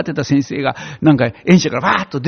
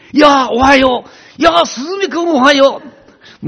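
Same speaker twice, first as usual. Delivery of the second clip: loud joyful greeting; 11 semitones higher, 5 dB louder than usual. Retold or imitated. Greeting sparrows loudly from the window, overjoyed. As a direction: call out happily to the sparrows. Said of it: "窓で大きな声で言ってんですからね".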